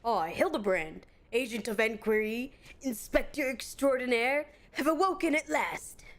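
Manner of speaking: lightly voiced pompous inspector, grandly proclaiming; a touch of a theatrical self-important detective; mild hammed-up gentleman sleuth; Hildebrand voice.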